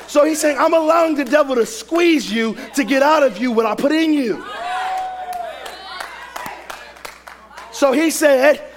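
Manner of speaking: forceful sermon delivery with punched key words; preaching. Real, not acted. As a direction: preach it hard to a congregation.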